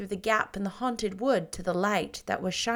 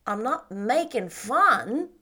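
put-on dignified boy; 3 semitones higher, 5 dB louder, slower than usual. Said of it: "said Davy with dignity".

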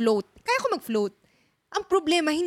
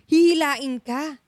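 warning parent; 2 semitones higher, 4 dB louder than usual. Retold or imitated. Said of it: "sasabihin sa'yo".

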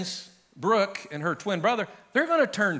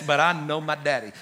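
"I" stressed, declared to the whole room; bold declaration; 3 dB louder than usual. Pretend. Pastor voicing a believer to the world, boldly. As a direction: say it like you mean it to the world. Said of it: "a boldness to say to the world around you".

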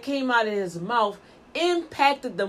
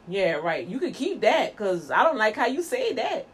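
dismissive; 4 semitones lower than usual. Acted. Scoffing at fake praise.

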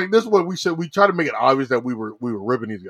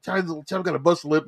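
higher-pitched mock outrage; acted fired-up protest; 7 semitones higher than usual. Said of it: "I'm all fired up".

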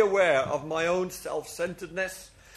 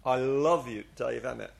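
soft and low, tenderly reassuring; a quiet, tender whisper of love; gentle voice of God; 6 semitones lower, 3 dB quieter than usual. Retold or imitated. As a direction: speak it as God's loving inner voice. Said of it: "inner voice saying".

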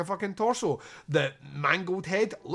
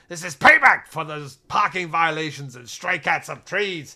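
mock rant; 6 dB louder than usual. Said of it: "going on his rant".

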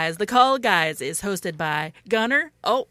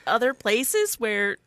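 attempted Canadian accent. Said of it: "And now for Canadian".

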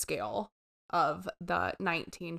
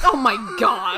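groan; 10 dB louder than usual. Real, not acted. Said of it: "reaction to pun".

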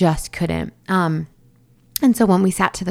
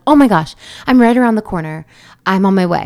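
retold alarm; 6 dB louder, faster than usual. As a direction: imitate a mom rushing to help. Retold mom reacting to labor news.

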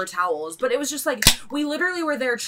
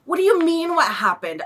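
high incredulous retort; baffled, indignant comeback; exasperated; 6 semitones higher than usual. Retold or imitated. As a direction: throw the question back in disbelief. Exasperated retort to waitress's question.

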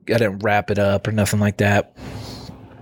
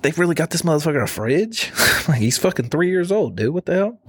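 higher, amazed half-laughing reaction; mock disbelief; 6 semitones higher than usual. Watching his nephew get a huge box, amazed higher disbelief. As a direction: gawk at the giant box.

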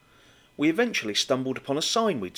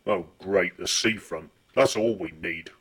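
put-on lower, pouting teen grumble; sulky teenager voice; 7 semitones lower than usual. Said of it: "sulky teenager voice".

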